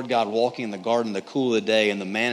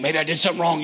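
put-on a kid's worried thought, higher; mildly scared; 4 semitones higher, faster than usual. Kid hearing dad on the stairs, mildly scared. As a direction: lightly act a nervous kid second-guessing. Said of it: "You get scared".

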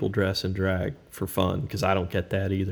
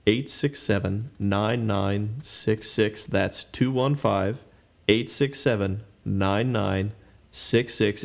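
slow, smooth call-in number read; smooth radio voice; slower than usual. Shown as a demonstration. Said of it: "you want me to put my smooth radio voice on?".

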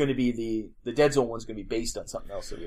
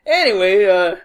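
loud laugh breaking in; 6 semitones higher, 13 dB louder than usual. Real, not acted.

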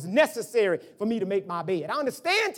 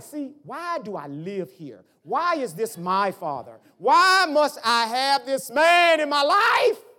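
inner grumble; 2 semitones higher, 4 dB louder, slower than usual. Retold or imitated. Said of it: "I say it to myself".

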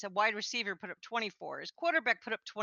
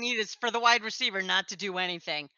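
louder, mock-confident retelling of a sarcastic wish; 7 dB louder, faster than usual. Bettor quoting her remark from the night before, sarcastic. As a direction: toss it out as an impossible hope. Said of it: "I said it sarcastically".

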